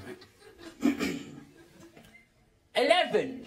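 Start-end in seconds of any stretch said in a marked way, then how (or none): 2.8-3.5 attempted English accent. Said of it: "Try an English accent".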